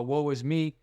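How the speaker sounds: ordinary talk, nothing marked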